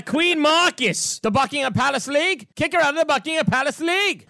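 lightly hammed-up Mike Milbury rant; mock Milbury rant. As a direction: ham up a blustery pundit. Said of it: "his big, uh, Mike Milbury moment".

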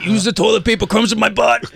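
high-pitched teasing imitation; mocking Lou. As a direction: join in mocking a pal. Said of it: "I don't sound like that".

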